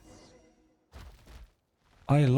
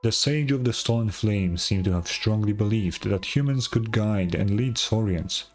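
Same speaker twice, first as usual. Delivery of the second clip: solemn elder lore. Acted. Elder explains the sage's legend to the travelers, grave and measured.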